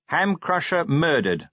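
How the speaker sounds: spaced-out newspaper headline; reading aloud. A narrator's reading. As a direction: read out the headline deliberately. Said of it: "Vimes read".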